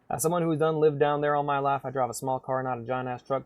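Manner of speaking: put-on Southern country voice; mock good-ol'-boy Southern accent. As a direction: talk like a proud Southern local. Jokingly speaks as a Southerner.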